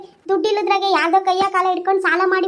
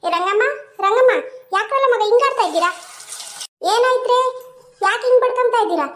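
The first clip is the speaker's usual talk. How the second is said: raised-pitch, exasperated questioning; alarmed calling out; 4 semitones higher than usual. Acted. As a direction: call out to a quarrelling household and demand to know why. Neighbour runs in calling, demands explanation. (ಗಾಬರಿಯಿಂದ ಕೂಗಿ ಕೇಳುವ ದನಿ)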